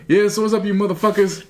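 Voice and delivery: imitating the coach, leaning hard on "motherfuckers"; stress on motherfuckers. Coach greeting his team, stress on "motherfuckers". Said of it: "Emphasis on motherfuckers".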